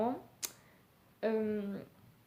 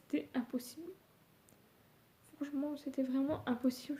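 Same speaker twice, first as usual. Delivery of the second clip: snotty crying; 2 semitones higher, 4 dB quieter than usual. Real, not acted. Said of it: "Je suis désolée si je pleure".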